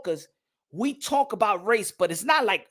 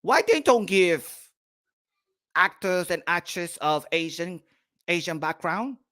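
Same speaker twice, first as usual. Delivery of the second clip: lower, slowed mock plea; mock complaint; 5 semitones lower than usual. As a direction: whine it out lower, mockingly. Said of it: "You don't see the Asian people saying".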